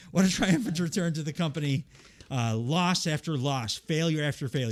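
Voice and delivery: weak Geordie lilt on "What a triumphant return to the company"; lightly voiced Geordie heel; mock Geordie promo. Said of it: "I can't do a Geordie accent".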